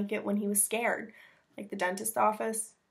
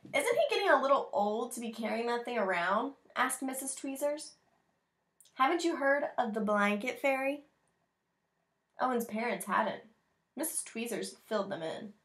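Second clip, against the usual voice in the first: put-on reading to children; 3 semitones higher than usual. Reads picture book aloud.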